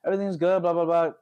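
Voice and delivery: breezy reply, running on fast; ex-girlfriend voice. Retold or imitated. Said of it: "She's like".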